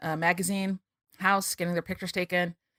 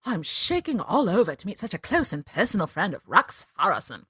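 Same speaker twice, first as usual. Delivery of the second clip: Clarice impression. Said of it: "because I believe she says".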